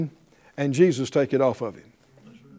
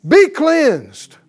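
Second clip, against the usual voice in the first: loud, higher commanding Jesus voice; command of power; 9 semitones higher, 8 dB louder than usual. Acted. Jesus healing the leper with a loud command. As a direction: declare it with full authority. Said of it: "speaks this command of power".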